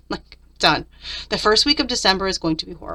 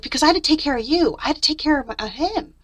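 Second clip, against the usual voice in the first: exasperated rant; 3 semitones higher than usual. Retold or imitated. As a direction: vent it like you're still fed up. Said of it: "You can see I was mad. I, I really ranted".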